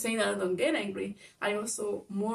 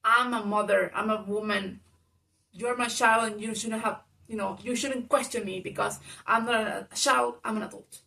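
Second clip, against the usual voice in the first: mother's retort; 4 dB louder than usual. Retold or imitated. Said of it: "And then she's like".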